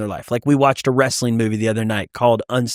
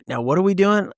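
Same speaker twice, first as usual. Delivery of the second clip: higher-pitched curious question; lightly voiced kids; 6 semitones higher than usual. Young sons asking their dad, lightly mimicked curiosity. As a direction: ask like a puzzled child, lightly imitated. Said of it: "Liam and Benny are like".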